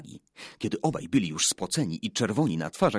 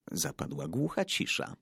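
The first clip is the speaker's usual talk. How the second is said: plain reading voice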